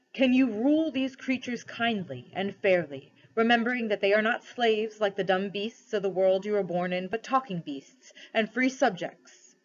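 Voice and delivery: solemn, measured questioning with mild authority; lightly voiced lion ruler, questioning. Aslan tests the cabby for kingship, lightly solemn. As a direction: test him gently but gravely.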